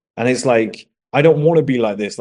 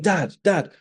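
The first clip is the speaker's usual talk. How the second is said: higher-pitched imitation of a kid calling; child calling dad; 6 semitones higher than usual. Ignored son calling his dad at the TV, lightly imitated nagging. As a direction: mimic a child bidding for attention, pitched up. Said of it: "I'd be like".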